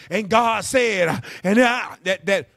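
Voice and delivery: slow, loud preacher build-up with a gasped "ha"; mock preacher cadence. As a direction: ham up a pastor's rhythmic breath. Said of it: "you know how they be doing it".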